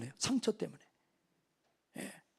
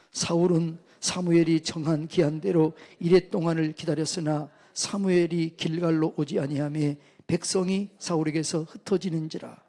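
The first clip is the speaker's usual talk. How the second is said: even, measured verse reading in a narrow tune; formal, level Bible recitation; scripture reading; 3 semitones lower than usual. Real, not acted. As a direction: read the passage out steadily for all to follow. Reads scripture aloud to congregation.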